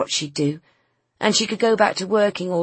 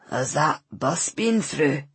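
gruff; 2 semitones lower, slower than usual. Acted. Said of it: "He sounded gruff".

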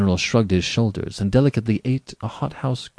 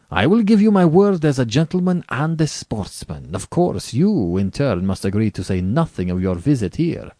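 grand general starting high and loud, then settling; assuring general; 5 semitones higher, 4 dB louder than usual. Acted. General giving his guest his word, assuring. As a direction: pledge it emphatically, then ease into the condition.

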